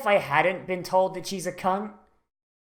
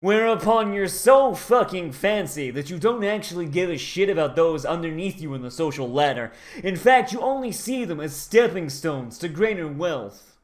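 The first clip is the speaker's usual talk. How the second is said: posh and haughty. Retold or imitated. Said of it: "the Japanese equivalent of speaking like this".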